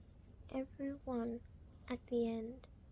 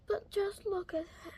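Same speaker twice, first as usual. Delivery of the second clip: close to tears; 5 semitones higher than usual. Real, not acted. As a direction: voice catching with real tears. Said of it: "I'm sorry if I start crying".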